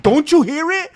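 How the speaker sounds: hammed-up worried wife; imitating half-asleep wife. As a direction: play the wife insisting on the noise. Wife voiced in a story.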